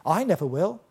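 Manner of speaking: a touch of proud insistence; emphatic boast. Retold or imitated. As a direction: swear it with mild bravado. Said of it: "he's so emphatic".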